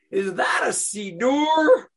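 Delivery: high, loud, slow Brooklyn-tinged shout; a hint of Brooklyn under a southern drawl, shouted; lightly voiced Brooklyn accent. Stranger on the plane asks about the siddur, a light Brooklyn shout. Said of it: "a little Brooklyn accent".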